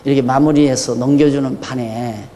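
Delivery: self-pitying sigh about the debt; sighing lament. Retold or imitated. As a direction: sigh over the debt like an old man. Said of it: "나도 사람인지라".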